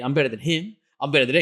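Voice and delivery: hammed-up playground boast; childish tantrum. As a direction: mimic a grown man bragging like a pouting child. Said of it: "It was like a kid".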